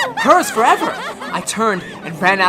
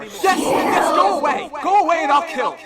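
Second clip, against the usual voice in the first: frenzied shout; 10 semitones higher, 5 dB louder than usual. Acted. Man shouting at the voice.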